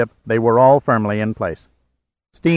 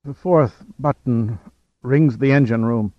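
gasping for breath. A narrator's reading. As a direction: gasp each word, breathless. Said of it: "gasping the words with every breath".

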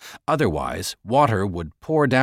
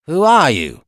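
sharp, louder demand; 4 semitones higher, 8 dB louder than usual. Acted. Second guard demanding the intruder's name, loud and sharp. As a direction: bark the question at the stranger. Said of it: "he demanded".

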